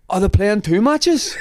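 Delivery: put-on drunk confusion. Drunk Dinsey on the phone asking about the match, befuddled. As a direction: ask it slowly like a confused drunk.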